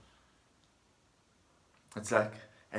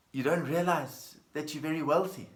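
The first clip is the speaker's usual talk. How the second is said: surprised disbelief; 4 semitones higher, 4 dB louder than usual. Acted. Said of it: "looks at him strangely and says".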